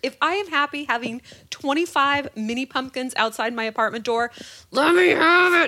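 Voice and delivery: loud and high, building to a shout; impassioned rant. Real, not acted. Woman defends early Christmas decor, rising to a shout. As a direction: demand it defiantly.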